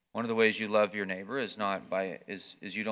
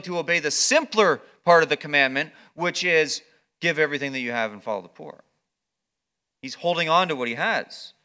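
louder, insistent preaching; preaching at full force; 5 semitones higher, 9 dB louder than usual. Acted. Pastor pressing the hardest challenge, louder. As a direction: drive the point home, louder.

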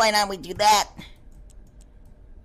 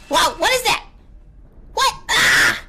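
startled; 8 semitones higher, 3 dB louder than usual. Real, not acted.

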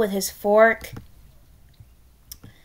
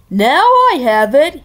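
louder, higher eureka; proud exclamation; 4 semitones higher, 7 dB louder than usual. Acted. King announcing his idea, loud proud eureka. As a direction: blurt it out like a proud fool.

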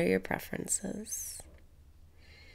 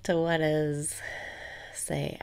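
guided meditation; 3 dB louder than usual. Acted. Meditation host guiding listeners through breathing, calm steady cues.

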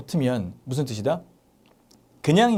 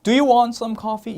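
slow and higher, every word clear; slow, high model question; 9 semitones higher, 5 dB louder, much slower than usual. Shown as a demonstration. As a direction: lay it out slowly for students. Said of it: "이러면". (천천히 높게 또박또박)

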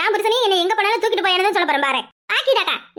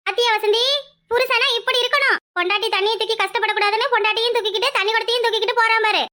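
lightly voiced village gossip, pitched up; a hint of a higher-voiced onlooker; gossiping neighbour; 3 semitones higher than usual. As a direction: point out the couple to a friend. Neighbour gossiping about the carried wife.

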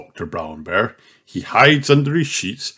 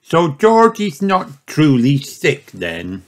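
disappointed; 5 semitones higher, slower than usual. Acted.

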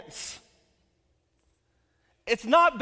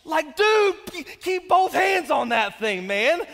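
loud, higher mock panic at the doctor; mock yell; 5 semitones higher, 5 dB louder than usual. Father yelling at the doctor holding his baby, mock panicked. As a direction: yell at him to hold on.

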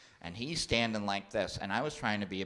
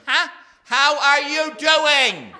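much higher, loud slow shout; shouting to deaf aunt; 15 dB louder, slower than usual. Retold or imitated. Nephew shouting a greeting at a deaf aunt, high and loud. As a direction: yell so a deaf aunt can hear. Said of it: "I said".

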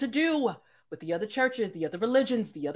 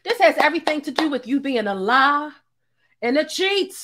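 loud, furious yelling back at the screen; shouting down a lying preacher; angry shout; 9 dB louder than usual. Real, not acted. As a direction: tear into him at full volume. Viewer yelling back at pastor's video.

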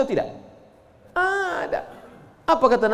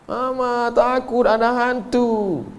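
a hint of a higher, slow frightened child; scared child; 6 semitones higher, slower than usual.

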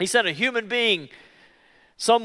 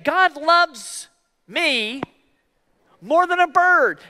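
higher, rising call for them to repeat; prompting the congregation; 7 semitones higher, slower than usual. Shown as a demonstration. Preacher leading the congregation in the phrase, higher. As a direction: lift it up so they say it back. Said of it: "say it".

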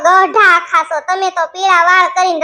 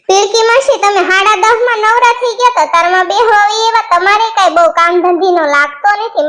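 teasing niece. Acted. Girl Gogdi scolding aunt Pilki.

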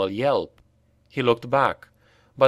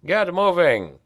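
barked order; 6 semitones higher than usual. A narrator's reading. Pavel prodding slaves with spear.

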